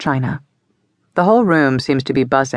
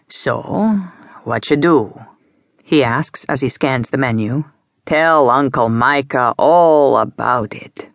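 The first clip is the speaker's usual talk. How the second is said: coaxing Uncle Micah; slower than usual. Acted. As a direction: draw the secret out of her like a kindly uncle.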